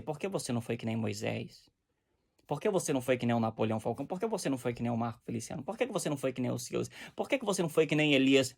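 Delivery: lightly voiced God asking. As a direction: speak as God, gently questioning. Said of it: "ele não vai dizer pra você".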